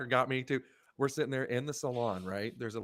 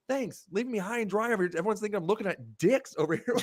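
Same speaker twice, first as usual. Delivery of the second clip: sarcastic thanks; 8 semitones higher, 7 dB louder than usual. Retold or imitated. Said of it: "And I'm like".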